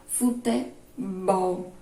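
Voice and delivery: futebol drawn out, landing on the final "bol"; stress on last syllable. Shown as a demonstration. Teacher showing pupils the stressed last syllable, "bol" stressed in futebol. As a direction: say futebol slowly, leaning on "bol". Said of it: "mais forte".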